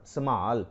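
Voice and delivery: ਸੰਭਾਲ with both syllables, sa-maal; correct reading. Shown as a demonstration. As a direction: give ਸੰਭਾਲ its first vowel before the long maal. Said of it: "ਇਹ ਲਫ਼ਜ਼ ਹੈ, ਸੰਭਾਲ ਨਹੀਂ ਪੜ੍ਹਨਾ".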